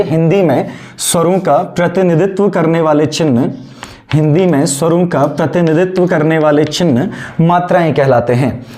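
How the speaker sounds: slow, word-by-word dictation; classroom dictation. Shown as a demonstration. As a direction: dictate slowly for students taking notes. Dictates notes to students.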